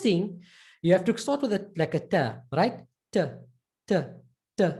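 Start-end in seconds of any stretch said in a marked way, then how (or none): 3.1-4.7 "Ta" with a little bounce, repeated; bouncing ta. Shown as a demonstration. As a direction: tap out "Ta" with a bounce each time. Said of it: "as if there was a bounce on the ta".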